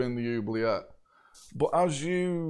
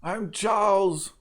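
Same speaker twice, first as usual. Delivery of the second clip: put-on higher, slow French-accented introduction; 6 semitones higher, slower than usual. Prisoner introducing himself, slow French accent. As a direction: announce yourself with a French accent. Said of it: "a French accent from another cage".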